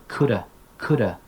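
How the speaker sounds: "coulda" with have shrunk to uh; casual run-together "coulda"; reduced could have. Shown as a demonstration. Teacher drilling perfect modals, casual reduced form. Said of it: "And then with the perfect modals".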